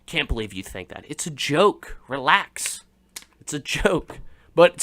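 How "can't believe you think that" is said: hushed mock outrage. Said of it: "You're just like".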